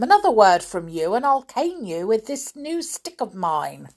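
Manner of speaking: loud stern threat; teacher threatening Binky; menacing threat. Acted. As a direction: threaten the boy with the cane. Grimm threatens to cane.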